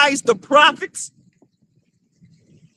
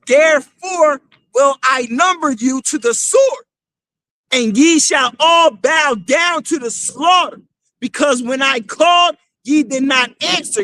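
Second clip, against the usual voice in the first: scripture declaimed. Acted. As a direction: proclaim each word like the prophet himself. Reads scripture aloud to crowd.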